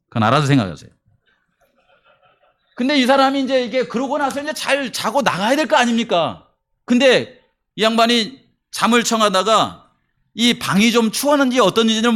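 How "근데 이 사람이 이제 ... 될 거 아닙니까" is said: normal talking voice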